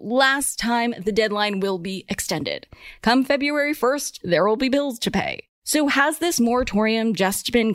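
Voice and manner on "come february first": ordinary talk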